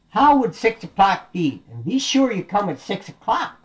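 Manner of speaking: high, insistent piglet; bossy little piggy. Acted. Piggy telling the wolf when to come, high insistence.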